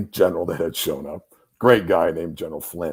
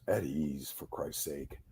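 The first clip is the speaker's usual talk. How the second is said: casual dismissal; 6 semitones lower, 11 dB quieter, slower than usual. Retold or imitated. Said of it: "he goes".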